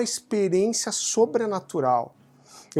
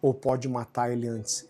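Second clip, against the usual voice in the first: tearful mother; 5 semitones lower, 4 dB quieter than usual. Retold or imitated. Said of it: "ela chorando".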